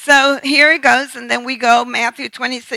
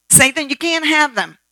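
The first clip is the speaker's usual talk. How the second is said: a firm rebuke of Satan, a little louder; warfare prayer; 3 semitones higher, 4 dB louder than usual. Shown as a demonstration. Preacher demonstrates spiritual warfare against Satan, firm rebuke. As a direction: command the enemy to back off. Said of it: "Do you see how I'm praying?".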